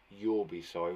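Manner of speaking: low growled threat; snarled threat. Acted. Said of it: "the girl snarled".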